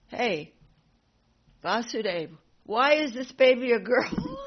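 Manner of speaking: loud, high outraged demand; indignant demand. Retold or imitated. Kamsa bursting in on Vasudeva, loud high outraged demand. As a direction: storm at him in disbelief.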